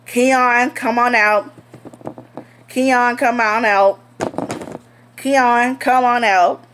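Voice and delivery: calling out like a cop. Retold or imitated. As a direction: coax him out of the pantry. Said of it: "two white cops, one black cops".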